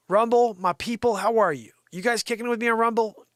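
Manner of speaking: loud, high hail to the crowd; rallying shout. Real, not acted. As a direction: call out to your audience. Hailing the Rumble audience.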